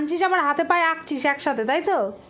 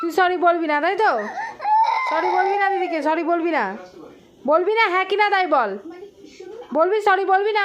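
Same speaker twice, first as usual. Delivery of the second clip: firm, insistent demand for an apology; real parental telling-off; stern scolding; 2 semitones higher than usual. Real, not acted. Scolding child who refuses to apologise.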